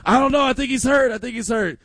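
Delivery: mock worried grandma.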